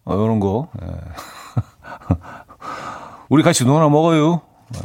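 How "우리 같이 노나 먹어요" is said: playful Chungcheong dialect line. Shown as a demonstration. Host playfully repeating Chungcheong dialect on air. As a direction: say it like a Chungcheong local sharing food. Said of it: "충청도 사투리로 시작을 해보도록".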